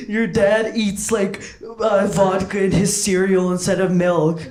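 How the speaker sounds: lightly acted schoolkid taunt; mock taunting. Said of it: "would taunt me and be like".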